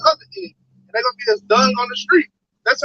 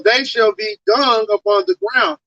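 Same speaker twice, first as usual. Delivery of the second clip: scripture reading; 3 semitones lower, slower than usual. Acted. Reads scripture aloud.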